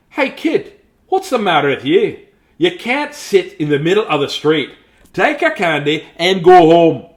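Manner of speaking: lightly voiced scolding policeman; stern policeman. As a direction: order the kid home. Policeman scolds kid in street.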